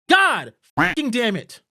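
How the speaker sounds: slow, loud, exasperated curse; seething real anger; angry swearing. Real, not acted. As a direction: spit it out in real frustration. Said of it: "I get so fucking angry".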